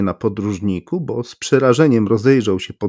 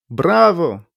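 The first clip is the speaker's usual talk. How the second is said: Brawo! called out higher and brighter; enthusiastic bravo; 7 semitones higher than usual. A narrator's reading. The stranger cheers Berlioz, higher and enthusiastic. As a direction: cheer it with real gusto. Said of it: "zawołał cudzoziemiec".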